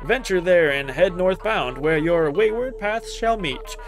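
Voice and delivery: poem reading. Acted. Reads a song poem aloud.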